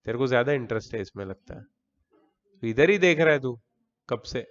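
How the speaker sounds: real teacherly telling-off; scolding. Real, not acted. Teacher catches a student looking away, scolding. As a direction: mildly scold an inattentive student. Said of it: "मैं डांटने वाले tone में चला गया".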